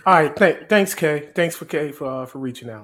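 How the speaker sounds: mock polite phone sign-off; pretend phone call. Co-host thanks an imagined caller, pretend phone call. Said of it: "T O with the phone call here".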